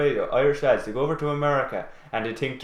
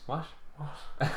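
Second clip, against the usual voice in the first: mock Jamaican accent; 2 semitones higher, 11 dB quieter than usual. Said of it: "say, a Jamaican accent".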